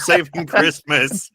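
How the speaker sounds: high-pitched mock battle cry; heroic shout. Player corrects his hero's line to the giant, heroic shout. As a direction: call it out as a triumphant catchphrase. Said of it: "and shout".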